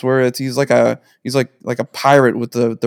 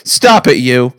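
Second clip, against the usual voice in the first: coy, slow, laughing protest; mock shy denial; much slower than usual. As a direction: bat it away bashfully. Coy reaction to teasing.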